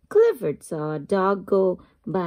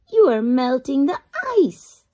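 mild anger; 4 semitones higher, 5 dB louder than usual. Acted. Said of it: "The ice skaters were angry".

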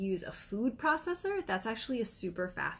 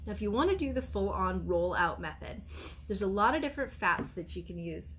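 talking through a held-back sneeze; fighting off a sneeze mid-sentence; holding back a sneeze. Real, not acted. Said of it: "I'm trying not to sneeze again".

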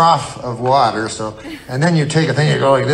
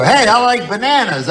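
simple-minded friend voice; 8 semitones higher, 3 dB louder than usual. Retold or imitated. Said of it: "he'd go".

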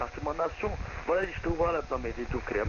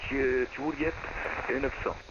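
voice changer. Acted. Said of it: "ça sert à rien d'utiliser des modificateurs de voix".

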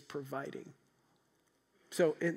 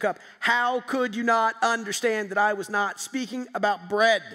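loud, stern rebuke, pitch up; angry Jesus berating his disciples; harsh scolding; 4 semitones higher, 8 dB louder than usual. Shown as a demonstration. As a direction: scold them like a disappointed master. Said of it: "you probably heard the verses like this".

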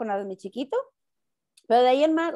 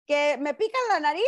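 much higher, laughing through the words; laughing while telling; 9 semitones higher than usual. Real, not acted. Woman laughing to friends about her nose swabbed twice for nothing. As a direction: tell it while giggling at the memory.

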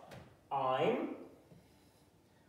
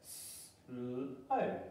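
soft stretched "slow", slowly sliding up; drawn-out slow; 6 dB quieter than usual. Shown as a demonstration. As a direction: stretch "slow" out softly and let it rise. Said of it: "let's read it together".

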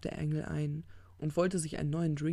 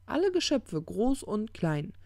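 emphatic correction; 7 semitones higher, 5 dB louder than usual. Acted. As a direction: restate it high and loud, then draw it out. The corrected quote.

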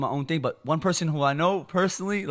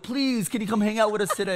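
pitched-up imitation of pleading; retold begging; 4 semitones higher than usual. Boys outside for an hour asking mom, re-enacted pleading. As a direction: act out asking yet one more time. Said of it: "I used to beg his mom".

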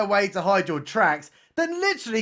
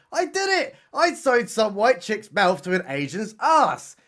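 gloating delight; 3 semitones higher than usual. Retold or imitated. Creepy captor loving his handiwork, mock gloating. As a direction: crow it with hammed-up delight. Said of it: "he's absolutely loving it".

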